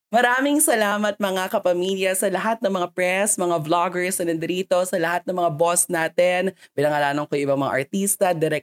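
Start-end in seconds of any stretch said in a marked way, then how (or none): 0.1-6.5 bright, raised event-host voice; host thank-you spiel. Shown as a demonstration. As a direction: thank the crowd like a press con host. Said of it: "Eto na, kumapit kayo".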